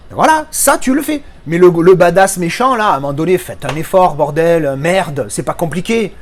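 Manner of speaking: ranting in exasperation, then slowing on the last words; real exasperated rant; worked-up exasperation. Real, not acted. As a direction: let the irritation burst out. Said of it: "je me calme".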